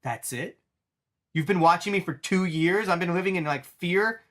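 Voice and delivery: mock exasperated disbelief; incredulous. Charlie shocked at the tiny favor, mock incredulous. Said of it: "And he goes".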